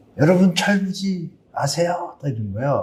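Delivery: professor-like lecturing voice. Recounting a professor's question at a lecture, imitating a professor's voice. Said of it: "성대묘사처럼 비슷하게 해볼게요".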